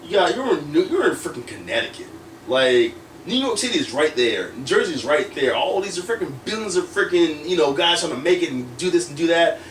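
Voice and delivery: mildly heated, retold tirade; pissed-off rant. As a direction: replay an irritated rant at yourself. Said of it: "freaking pissed. I'm like".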